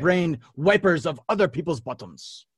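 hammed-up taunting quote; taunting French knight. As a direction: hurl it as a silly film taunt. Acting out the film's French taunts.

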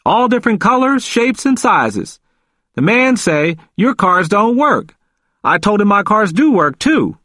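high, animated character voice; emphatic, excited. A narrator's reading. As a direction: argue the point proudly, pitched right up. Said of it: "He spoke emphatically, with much more excitement".

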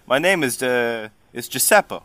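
lightly voiced New Jersey Italian; Italian turned New Jersey. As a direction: introduce yourself with a hint of New Jersey Italian. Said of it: "Italian is gonna sound New Jersey".

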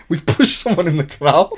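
mock a small boy owning up; imitating the kid. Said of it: "they're Irish".

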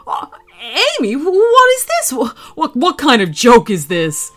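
a dad recoiling in horror; horrified dad. Acted. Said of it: "he screamed with horror".

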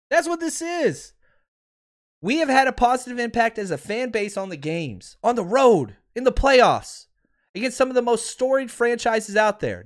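fired-up rant. Real, not acted. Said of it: "little rampage there".

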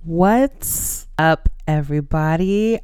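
breathy whisper hello; whispered greeting. Acted. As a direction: whisper the welcome close to the mic. Podcast intro greeting, whispered.

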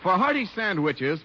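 ordinary delivery

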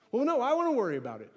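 quick, insistent objection; mock protest. Preacher playing a worrier answering God, mock protest. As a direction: argue back in a rush, playing it up.

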